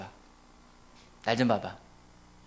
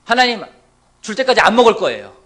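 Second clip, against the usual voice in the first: loud stubborn ultimatum; mock threat; 4 semitones higher, 14 dB louder than usual. Fasting believer threatening God, loud and stubborn. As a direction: threaten God like a sulking child. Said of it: "협박도 해요".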